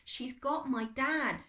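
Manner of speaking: slow, high-pitched lament; tearful. A narrator's reading. Boy weeping to his friend about Dad, tearful. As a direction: say it slowly through tears. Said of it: "he couldn't stop the hot tears".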